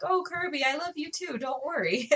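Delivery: cooing to a dog. Retold or imitated. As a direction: soothe a jealous pup lightly. Reassuring her jealous dog.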